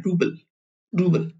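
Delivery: रूबल with the final ल cut short and held back; रूबल with a clipped soft final ल; soft sign demo. Shown as a demonstration. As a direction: stop the ल at the end of रूबल. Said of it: "रोक लगा रहे हैं".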